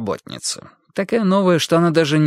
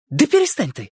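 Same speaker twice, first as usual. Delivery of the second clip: mild annoyance; 8 semitones higher than usual. A narrator's reading. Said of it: "раздражённо отвернулась".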